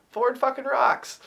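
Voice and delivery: drawn out like a proud redneck; Southern hick. Retold or imitated. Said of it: "a very Southern hick type of character".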